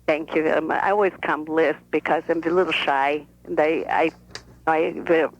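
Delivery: a lightly voiced shy old Russian grandmother; other grandmother. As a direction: speak as the careful, reserved grandmother. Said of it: "This is the other grandmother speaking".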